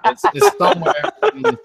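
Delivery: squeaky hammed-up Southern voice; high hammed Southern accent. Shown as a demonstration.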